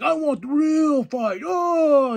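high, cracking hype yell; hyped challenge. Retold or imitated. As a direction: scream for the real fight like a fired-up wrestler. Acted hype quote.

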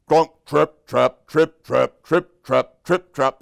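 firm, punched trip-trap; big hoofsteps. Acted. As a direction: tap out heavy hooves word by word. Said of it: "They were so loud".

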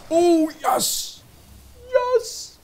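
high, loud jubilant yes; cheering. Real, not acted. Streamer cheering his unit Dave, high jubilant yes. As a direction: celebrate the hit.

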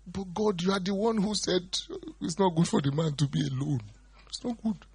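high mock protest; lightly played bargaining; arguing with God. Arguing with God about being alone, high protest. Preacher voices his own argument with God.

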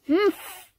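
indignant humph. A narrator's reading. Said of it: "cried Cucumber".

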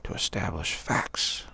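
slow, deliberate mock proclamation; mock pompous officials. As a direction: spell it out like self-important officials.

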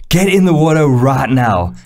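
slow stern shouted order; retold stern skipper command; skipper's order. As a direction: bark it like a boat skipper. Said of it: "the skipper turns to me and he goes".

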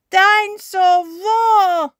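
put-on high, loud little-boy roar; toddler dinosaur roar. A narrator's reading. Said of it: "says George".

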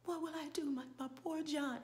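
high, soft stage weeping; mock tearful lament. Actress grieving for poor John, mock tearful. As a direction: imitate an actress squeezing out tears. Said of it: "finally pulling out some tears".

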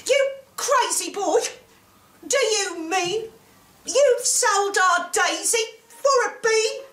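high-pitched, incredulous scolding mother; outraged mother. A narrator's reading. Mother to Jack over the cow sold for a bean, outraged.

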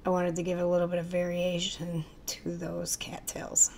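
hoarse, voice giving out; losing her voice, barely voiced; raspy whisper. Real, not acted. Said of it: "I'm losing my voice again".

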